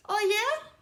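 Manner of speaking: high, loud annoyed "Oh yeah?"; loud, annoyed comeback; annoyed challenge. A narrator's reading. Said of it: "He was a little annoyed".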